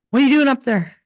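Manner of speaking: high, loud suspicious question; a father calling up, wary; mock father calling upstairs; suspicious dad.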